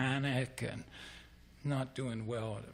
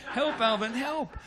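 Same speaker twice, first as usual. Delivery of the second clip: high-pitched, loud retold scream; screaming for help; 11 semitones higher, 6 dB louder than usual. Retelling how he screamed to his buddy from the lake, high loud cry. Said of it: "I start screaming".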